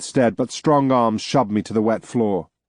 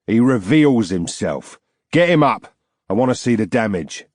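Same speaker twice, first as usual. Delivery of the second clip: put-on Arctian accent. Arctian captor ordering his men, burbling Arctian accent. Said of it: "in a burbling Arctian accent".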